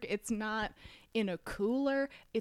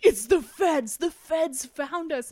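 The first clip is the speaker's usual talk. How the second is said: louder mock paranoid leader; 6 semitones higher, 7 dB louder, slower than usual. Paranoid militia leader quoted again.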